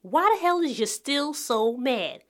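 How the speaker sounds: slow, drawn-out exasperated question; exasperated demand. Acted. Audience member confronting the rapper, exasperated. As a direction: stretch it out, fed up with him.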